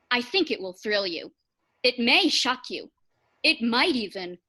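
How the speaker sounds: ordinary delivery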